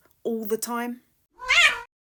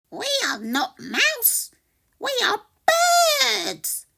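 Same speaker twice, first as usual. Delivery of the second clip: chirpy birds; 7 dB louder than usual. Acted. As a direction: cry it out like a flock of birds. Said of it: "say the birds".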